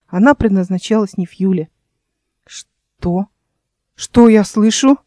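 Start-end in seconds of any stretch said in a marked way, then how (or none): 2.5-5.0 a slower, louder outburst of disbelief; can't hold back. Acted. Younger brother interrupting the intrigue, outraged disbelief. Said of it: "не выдержал младший брат".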